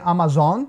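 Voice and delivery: "Amazon" with open Portuguese A sounds and marked ending; wrong open vowels. Shown as a demonstration. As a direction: mispronounce "Amazon" as ah-mah-ZON. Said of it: "não se pronuncia Amazon". ("Amazon" errado, com os dois A abertos)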